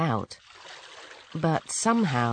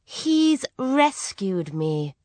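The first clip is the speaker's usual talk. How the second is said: cartoon princess; 5 semitones higher, much slower than usual. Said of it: "said the princess".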